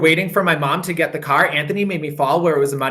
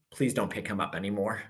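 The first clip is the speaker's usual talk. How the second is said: dad; 7 semitones lower, 13 dB quieter than usual. Acted. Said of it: "My dad said".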